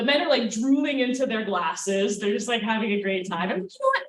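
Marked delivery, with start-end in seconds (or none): 3.7-4.0 psyched up. Retold or imitated. Psyching herself up.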